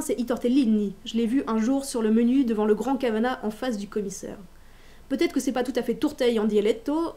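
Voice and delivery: put-on bright, cheeky read-aloud of a boy's voice; reading a child's monologue aloud. A teacher reads young François's spelling logic to students, bright and cheeky. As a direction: read it as a boy pleased with his own spelling.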